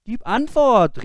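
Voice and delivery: high, loud demand; shouting. Acted. Boy shouting at the silent figure on the stairs. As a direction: order the figure to answer. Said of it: "rief der Junge".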